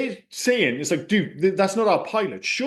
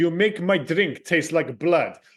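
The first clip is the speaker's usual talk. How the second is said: clumsy, bad fake Russian accent. Quoting his best line from a film you find baffling, in a bad Russian accent. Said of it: "Even in the bad Russian accent".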